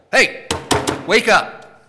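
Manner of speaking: loud, high urgent call to wake them up; emphatic imperative, rising to a loud, high shout; forceful command. Shown as a demonstration. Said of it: "It's forceful".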